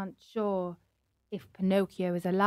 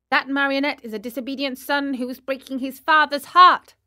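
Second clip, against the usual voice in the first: lightly voiced cricket, reproachful and a bit louder; scolding cricket; 4 semitones higher, 4 dB louder, faster than usual. Cricket condemning Pinocchio, a touch reproachful. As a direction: scold the runaway puppet.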